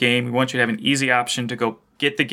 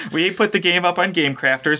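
laughing; 6 semitones higher than usual. Real, not acted. Repeat said laughing.

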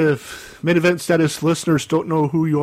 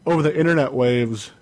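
show intro. Acted.

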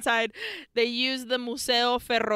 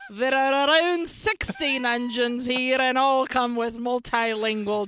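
bad Scottish accent. Reading a review in a bad Scottish accent on request. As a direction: try a Scottish accent and mostly miss. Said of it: "Can you do it in a Scottish accent?".

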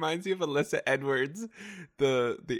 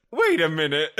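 loud, higher mock outburst; theatrical interruption; 4 semitones higher, 8 dB louder than usual. Showing a friend the comeback, loud and dramatic. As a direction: halt them dramatically. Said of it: "Listen to the".

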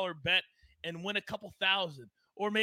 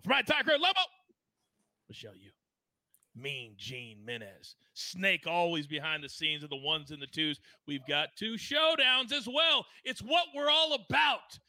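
announcer. Real, not acted. Host's show sign-off roll call.

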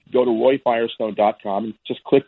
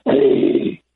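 imitating a faltering old man; a drawn-out, tentative call as an old man; halting old man. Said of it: "he speaks haltingly at first".

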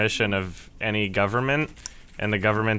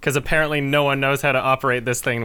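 higher, worked-up rant, easing toward the end; comic exasperation, pitched up; exasperated mock officials; 6 semitones higher, 5 dB louder than usual. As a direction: act out baffled bosses begging him back. Retold officials exasperatedly rehiring the hero.

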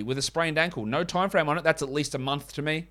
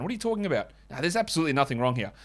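mocking denial; faster than usual. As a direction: scoff like a team flack. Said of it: "repeats mock denial".

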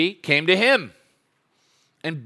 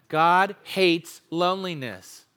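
God stressed, each word slowed for the room to join; slow group recitation; 2 semitones higher, slower than usual. Shown as a demonstration. Preacher leads the congregation, slow unison recitation. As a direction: say it slowly, leading the congregation. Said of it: "Can we say that together?".

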